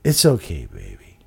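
soft, sinking very low on the last word; Sue. Retold or imitated. Storyteller imitates Sue consoling Salami, low soft voice. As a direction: impersonate her with a low, trailing drop. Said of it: "'cause that's how she talks".

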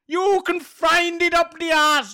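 hammy Irish folk voice; put-on Irish lilt; mock Irish accent. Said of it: "Is that Irish?".

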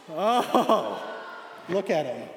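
loud, drawn-out coo; cooing over a picture. Pretend. Speaker showing church his friend's childhood picture, loud coo. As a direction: coo loudly over a cute photo.

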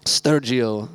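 Sturgio said like an Italian name; playful fake Italian lilt on Sturgio; mock Italian accent. Shown as a demonstration. Pastor jokes the Greek word sounds like storage. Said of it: "storage with a funny accent".

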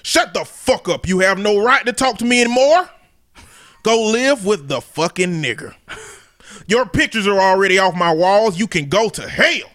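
lightly voiced country dad laying down the law; racist country daddy. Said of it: "racist country daddy voice".

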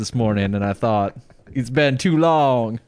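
mock-confessional Black American accent, last words drawn out; lightly imitated Black American accent; put-on Black American accent. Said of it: "you sound like you're a black man".

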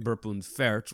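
Burp und Fart with German vowels; German name. Shown as a demonstration. Doctor showing off his nickname's spin, German accent. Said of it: "so it was a German name".

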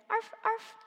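high happy little yips; dog barking. A narrator's reading. Max riding the sleigh, happy little dog barks. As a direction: bark like a small excited dog. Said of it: "the little dog barked".

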